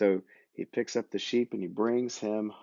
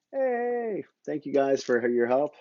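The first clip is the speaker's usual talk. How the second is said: puppet shepherd thanks; 5 semitones higher than usual. Pretend. Chewbacca puppet thanks children.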